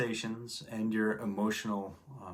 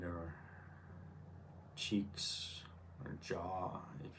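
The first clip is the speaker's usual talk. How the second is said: guided meditation; 5 dB quieter than usual. Real, not acted. Teacher guiding listeners to relax and turn inward, calm meditation voice. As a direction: ease them gently into relaxation, leaving space between phrases.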